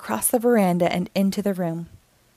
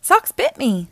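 mild yell; 5 semitones higher, 4 dB louder than usual. Acted. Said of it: "yells Bluey".

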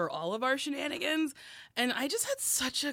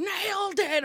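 high, loud catchphrase yell; mock scream; 12 semitones higher, 5 dB louder, slower than usual. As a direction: imitate fans hollering it out. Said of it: "people screaming".

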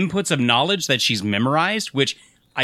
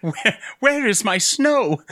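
slow, laughing whine; laughing mock complaint; 9 semitones higher, slower than usual. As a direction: joke through the laugh. Joking as Hannah in the desert.

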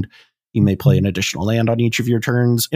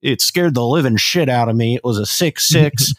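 put-on Midwest Southern accent; 2 semitones higher than usual. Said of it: "the Midwest Southern".

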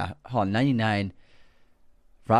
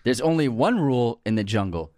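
McConaughey impression. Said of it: "here's my quote".

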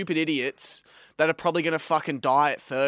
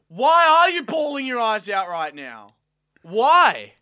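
louder, higher incredulous why; exasperated demand; 8 semitones higher, 6 dB louder than usual. Real, not acted. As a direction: push back at them, disbelieving. Mocking commenters, heated argument.

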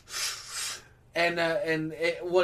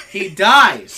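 laughing yell; 15 dB louder than usual. Real, not acted. Laughing outburst.

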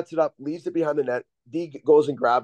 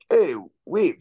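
bad French accent; 3 semitones higher than usual. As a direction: coach imitated in a rough French accent. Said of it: "that was the worst French accent ever".

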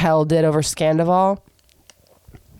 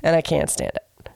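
stuffy cold voice. Real, not acted.

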